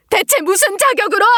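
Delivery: mother flaring up at her daughter, indignant; outraged challenge. Acted. Mother rebukes pleading daughter.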